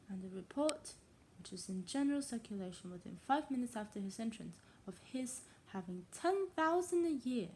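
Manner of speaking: put-on reading aloud in a tentative English accent; attempted English accent. Untrained reader trying a classic novel, English accent. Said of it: "how to say that in English accent".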